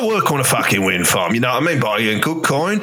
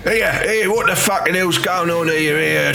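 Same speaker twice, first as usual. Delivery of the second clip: angry interruption; 5 semitones higher than usual. Acted. Father bursts in on wedding.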